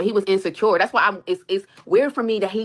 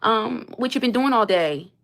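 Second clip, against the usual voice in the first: mock sweet husband; 4 semitones higher, slower than usual.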